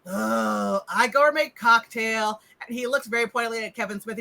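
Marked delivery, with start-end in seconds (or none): 0.1-2.4 lightly voiced servant in broken speech; plodding, understated henchman voice; Igor. Servant answers a cocktail request, lightly voiced henchman. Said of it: "Igor walks into the kitchen".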